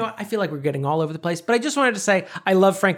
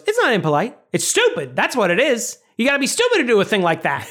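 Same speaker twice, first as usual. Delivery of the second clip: Frank ranting; 5 semitones higher than usual. Retold or imitated. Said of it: "And then Frank goes".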